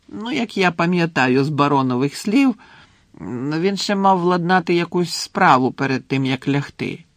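a hint of a chatty ghost, lifted voice; lightly voiced ghost. Ghost tells Harry the headmaster is back, lightly voiced. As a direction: pass on the news as an airy character.

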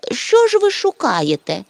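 lightly friendly question, pitched high; friendlier voice. A narrator's reading. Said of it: "уже привітнішим голосом сказав". (привітніший, вищий голос)

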